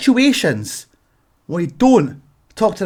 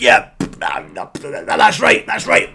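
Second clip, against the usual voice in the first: mumbling through mask; 14 semitones lower, much slower than usual. Retold or imitated. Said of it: "and you're like".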